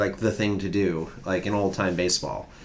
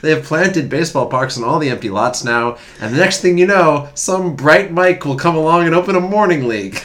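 hammed-up old newsreel announcer, building higher and louder; old-timey newsreel voice; 6 semitones higher, 6 dB louder than usual. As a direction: ham up a 1910s sportswriter, getting higher and louder. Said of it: "I was waiting for the old-timey voice".

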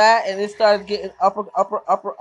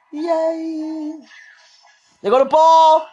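excited; 8 semitones higher, 4 dB louder, much slower than usual. Real, not acted. Excited reaction to fight.

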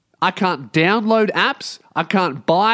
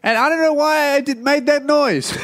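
laughing; 8 semitones higher than usual. Real, not acted. Laughing at his own intro.

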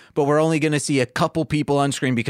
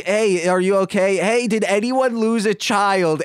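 mild mock calling out; 6 semitones higher than usual. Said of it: "I was like".

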